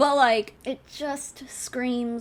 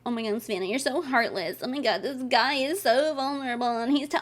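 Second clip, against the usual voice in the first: mock critic voice. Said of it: "people ... be like".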